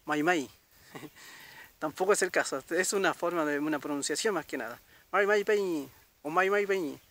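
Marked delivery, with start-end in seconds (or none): 0.0-0.5 MAI MAI with the r dropped entirely; r-less variant. Shown as a demonstration. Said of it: "Algunos dicen por ahí que es". 5.1-7.0 MAI MAI PEÑI with the r nearly or fully dropped; softened pronunciation. Shown as a demonstration. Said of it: "Un poquito más suave la pronunciación".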